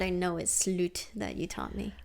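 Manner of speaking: unvoiced whisper, half-guilty. Real, not acted. Whispering to her cohost about a word she taught. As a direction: whisper the naughty confession.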